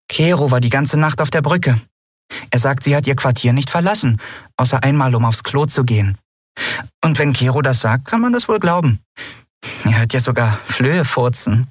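high, light little creature voice; tiny friend, chatty. A narrator's reading. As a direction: report it breezily to your friend. (hohes Stimmchen, munter berichtend)

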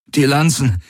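breathless, high and pained; panting urgent words; gasping. Acted. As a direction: gasp it out, short of air. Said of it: "keuchte Garland".

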